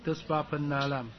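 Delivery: 那 held long before a short 浪; long vowel before 浪. Shown as a demonstration. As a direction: stretch out 那 in 巴普那浪. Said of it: "要加长音".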